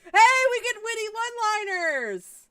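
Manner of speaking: mock excited; sarcastic glee. Real, not acted. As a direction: cheer it sarcastically.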